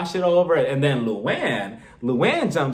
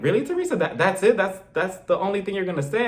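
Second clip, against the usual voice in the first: incredulous; 4 semitones higher than usual. Retold or imitated. Speaker reacts to Teresa's weak apology.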